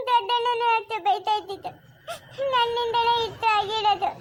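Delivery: put-on child's voice breaking with sobs; crying. Girl blaming herself as the aunt leaves, crying. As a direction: beg her, weeping, to stay. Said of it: "ಅಳ್ಬೇಡ ಸುಮ್ನೆ ಇರು".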